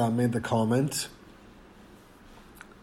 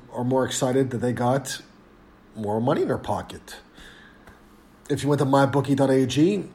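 ad read. Acted. Host-read sponsor ad.

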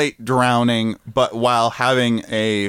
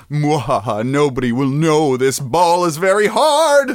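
evil villain gloating, louder; scheming cackling villain; wild unhinged ranting; 2 semitones higher, 3 dB louder than usual. Retold or imitated. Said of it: "the people who invented the softball is like".

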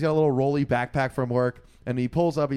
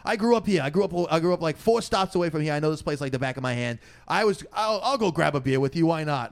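higher-pitched, chatty Queens local; put-on Queens accent, offering company; 4 semitones higher than usual. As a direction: imitate a proud Queens native. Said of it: "Like, deepest Queens accent".

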